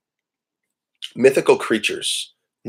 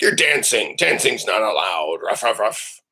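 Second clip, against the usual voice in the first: dog dictator voice. Retold or imitated. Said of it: "she gets into dictator mode".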